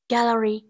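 gallery with the first syllable stressed. Shown as a demonstration. Teacher showing word stress for students, first-syllable stress on gallery. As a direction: say "gallery" with the beat on GAL. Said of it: "có trọng âm rơi vào âm tiết thứ nhất".

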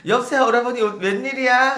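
high, sweet-talking phone greeting; put-on high hostess voice. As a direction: answer the regular in a lifted voice. Hostess answering a customer's call.

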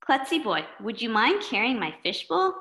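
politely asking friend; kid voice. Acted. Schleppy Boy asking.

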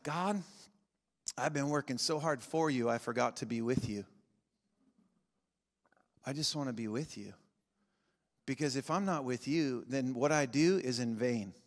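soft, intimate prayer; quiet prayer. Retold or imitated. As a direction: pray it quietly and sincerely. Voicing a prayer.

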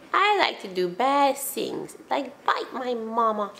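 slow, light puppy voice; voicing the dog. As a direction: speak for the dog mischievously.

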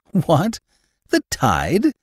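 high, startled exclamation; cried out. A narrator's reading. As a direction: blurt it out in surprise. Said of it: "I cried".

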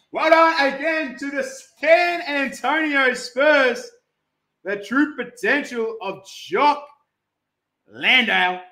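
lively congratulating call; showy card-break call; hype announcer. Acted. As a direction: announce the winner with gusto.

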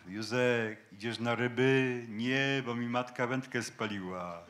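mock Kraków courtyard drawl; hammed-up local Kraków talk; Kraków caricature voice; caricatured Kraków accent. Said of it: "widzimy karykaturę takiej wymowy".

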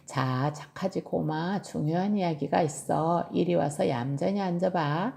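gentle coaxing. Acted. Tilly calls her bear over for an important talk, gentle coaxing. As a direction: coax patiently, easing the voice down. Child coaxes bear to sit.

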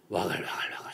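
low-key murmured crowd noise; imitated babble. Bruce hearing countless prayers at night, softly imitated babble. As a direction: mimic a distant hubbub under your breath. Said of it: "소리가 들려오는데 시끄러워서".

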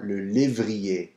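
le lévrier, slow, crisp é; French é. Shown as a demonstration. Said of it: "that sound E R".

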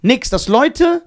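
amazed. Real, not acted. Marvelling at no injuries.

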